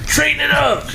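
mock high squeak. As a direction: jump way up high and squeaky on Straighten it up. Teasing about straightening the mic.

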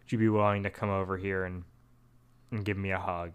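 mild retold tender plea; sweet request. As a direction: ask sweetly and softly, low in pitch. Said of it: "very sweetly asks".

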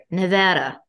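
"Nevada" with short "a" as in "cat"; attempted Nevada pronunciation. Shown as a demonstration. Host practising for her guest, "Nevada" with the "a" of "cat". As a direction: carefully try nuh-VA-duh for "Nevada". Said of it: "I don't know why it's so difficult".

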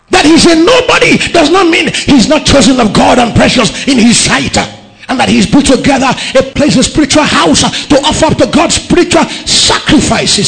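loud, ringing sermon delivery; preaching at full force. Acted. Pastor preaching to the congregation, loud and fervent. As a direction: preach it out to the whole church.

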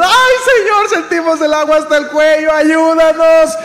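loud, high-pitched cry for help; desperate plea. Acted. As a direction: act out believers crying out to God in panic. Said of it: "nosotros desesperados". (súplica desesperada a gritos)

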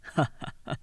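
short breathy mocking laugh; a quick contemptuous chuckle; mild sneering laugh under the breath; scornful laugh. A narrator's reading. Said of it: "曹操は嘲笑って".

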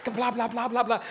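high, light blah blah parody; mock chatter. Preacher mimicking a man who never stops talking. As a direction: mimic his endless talking. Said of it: "You talk all the time".

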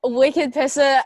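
authentic Boston slang; dropped-r Boston accent. Shown as a demonstration. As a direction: say it like a Boston local. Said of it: "The way you said it's so good".

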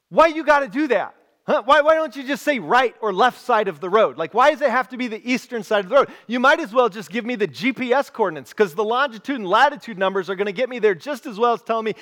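mock-exasperated, quick-fire complaint. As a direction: rattle it off in comic frustration. Acts exasperated reply to directions.

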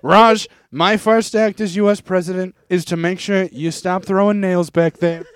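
lightly voiced president making a pledge; Donald Trump. Trump vows action against Raj, lightly voiced Trump. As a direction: announce it as president, slowing at the end. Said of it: "I'll do Trump".

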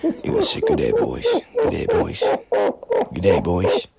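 close-to-the-mic Australian stage whisper; breath-heavy Australian greeting; whispered Australian accent. Shown as a demonstration. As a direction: whisper it in a broad Aussie accent. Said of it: "You gotta whisper like that".

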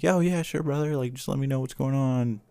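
Black cop faking a white voice to the Klan; talking white. Retold or imitated. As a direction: put on a cheery white-guy voice, half-joking. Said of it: "he talks white in the movie".

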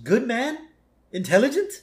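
put-on high, questioning old tycoon; a doubtful old boss asking. Burns voiced again.

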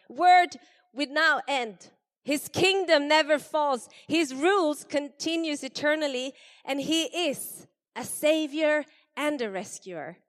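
high, loud kingly decree; royal proclamation. Acted. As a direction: proclaim it to every nation. King's proclamation.

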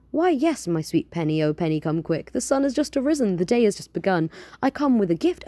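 lightly voiced grand genie; a hint of a theatrical genie.

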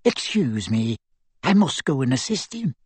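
put-on elderly witch excusing herself; lightly voiced old lady; crisp old lady. A narrator's reading. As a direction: take your leave briskly as a grandmother. Old lady's voice as she leaves.

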